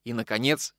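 ordinary delivery, nothing marked

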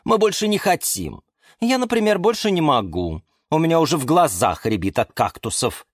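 high, tired complaining voice; fed up, pleading; weary orchid. A narrator's reading. Orchid Galatea speaks, weary.

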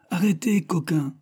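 high-pitched command to a servant; calling an order. A narrator's reading. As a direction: call out sharply to halt the lackey. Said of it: "Ces derniers mots s'adressaient au laquais". (ordre crié au laquais)

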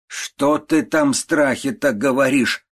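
sick aunt crying out at her niece; cried out. A narrator's reading. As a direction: demand it sharply from the bed. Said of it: "вскричала тётушка".

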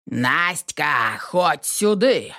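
a lightly voiced old man's holler, drawn out slow; understated old man's yell; yelling again. A narrator's reading. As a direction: call out slowly as if she's far off. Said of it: "снова заорал дед".

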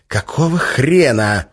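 slow, sharp barked demand. Acted. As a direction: bark it at him. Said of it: "рявкнул Гессер".

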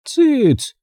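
high, sharp hush; cross granny's shush. A narrator's reading. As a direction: silence the child with one high word. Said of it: "шикнула бабушка Бон".

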